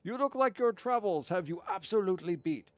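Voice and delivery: a hammed-up hawker calling out to a customer; voicing the tea seller. Streamer voices the tea seller hailing a passing customer, hammed-up.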